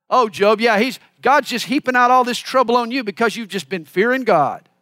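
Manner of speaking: loud mock sympathy for Job; lightly hammed-up sarcastic accuser. Preacher voices Eliphaz taunting Job over his troubles, sarcastic. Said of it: "He's being sarcastic".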